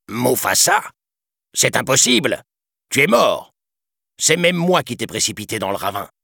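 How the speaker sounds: a shocked schemer seeing a ghost; disbelieving villain. A narrator's reading. Villain facing the returned prince, shocked and panicky. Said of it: "Scar n'en crut pas ses yeux".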